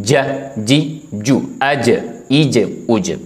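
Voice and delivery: ज, जी, जू said slowly, one at a time; letter drill. Shown as a demonstration. Teacher drilling जीम with its vowels. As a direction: sound out each vowel of जीम. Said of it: "अगर हम सीख लें जीम".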